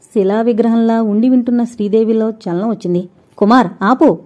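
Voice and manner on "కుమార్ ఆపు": louder, harsh falling command; stern stop. Acted. Sridevi harshly ordering Kumar to stop, louder. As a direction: order him to stop, hard and cold. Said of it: "కఠినంగా అంది".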